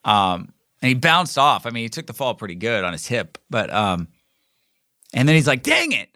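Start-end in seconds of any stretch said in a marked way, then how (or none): 5.6-6.1 imitating pissed friend. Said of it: "And he gets so pissed".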